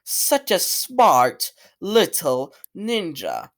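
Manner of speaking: slow, word-by-word villain quote; mock-dramatic, drawn-out delivery; hammy villain line. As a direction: stretch it out like a badly written villain. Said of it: "he has terrible lines such as".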